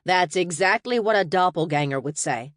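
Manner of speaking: short and curt receptionist; clipped, unimpressed reply. Acted. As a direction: cut him off briskly. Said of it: "the receptionist said curtly".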